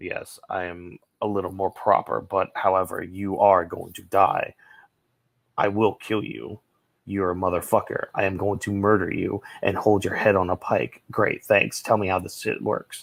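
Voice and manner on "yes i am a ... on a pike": deep, serious, menacing low voice. Comparing Kurama and Yoko, imitating Yoko's serious deeper tone. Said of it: "he does like this more serious, deeper tone".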